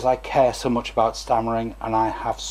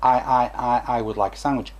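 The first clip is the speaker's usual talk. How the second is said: demo stammer. Shown as a demonstration. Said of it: "That is a disfluency".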